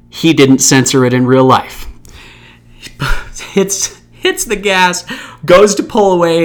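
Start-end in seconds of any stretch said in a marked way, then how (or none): 2.8-3.5 breathy little chuckle; amused laugh escaping mid-story; short laugh. Real, not acted. Storyteller cracking up before the punchline, short laugh.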